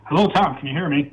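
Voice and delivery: thin, tinny phone line; tin can voice. Real, not acted. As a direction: sounds like a bad phone connection. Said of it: "you sound like you're in a tin can".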